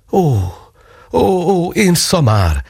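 high cry of sudden realisation; lightly voiced mother, a touch of mock dismay; self-scolding exclamation. A narrator's reading. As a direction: slap your forehead and groan at yourself. Mother realises own pocket.

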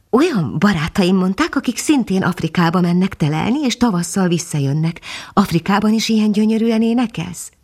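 a hint of the young dog, astonished; lightly voiced young dog. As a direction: marvel at the tiny bird, lightly voiced.

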